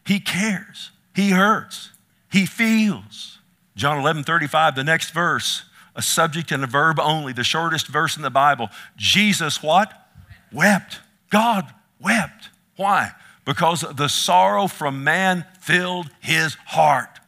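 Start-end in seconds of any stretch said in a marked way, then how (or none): 0.1-3.4 high, emphatic short declarations; impassioned. Real, not acted. Preacher tells congregation Jesus feels, impassioned. Preacher moved, driving the point home. 9.0-17.2 loud, raised, emphatic preacher; fervent preaching. Real, not acted. Preacher proclaims that God wept, fervent and loud.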